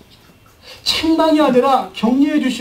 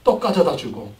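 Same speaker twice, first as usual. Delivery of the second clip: ordinary talk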